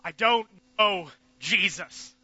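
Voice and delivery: loud, slow denial; emphatic denial. Acted. Peter denying Jesus to the crowd, loud emphatic denial. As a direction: deny him hard.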